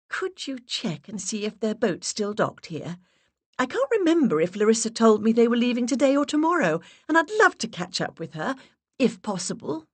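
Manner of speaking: sweet high-pitched put-on voice. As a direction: push the voice way up and play the charming visitor. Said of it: "raised my voice an octave".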